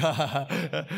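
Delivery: imitated group chuckle; mock chuckle. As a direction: act out a short, spelled-out chuckle. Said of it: "We chuckled".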